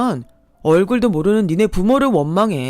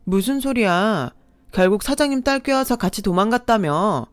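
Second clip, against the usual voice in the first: growing anger; 3 dB louder than usual. Acted. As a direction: sneer building to a loud accusing yell. Ex blames her, grows heated.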